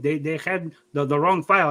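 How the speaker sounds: imitated Mexican-accented dad explaining himself; dad's Mexican accent. Son mimics dad blaming the file, Mexican accent. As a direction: defend yourself in dad's mock Mexican accent. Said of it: "I give you an accent".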